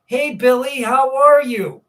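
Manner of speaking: cheery greeting, imitated. Parents greet boy on show.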